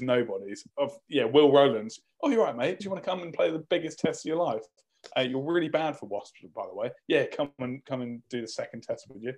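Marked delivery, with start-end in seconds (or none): 2.2-9.3 lightly voiced, casual coach's invitation; slightly higher, offhand sales pitch in mockery; mock coach's call-up. Coach ringing a reject about the Test, lightly mocking chummy voice. Acts out call-up to fringe player.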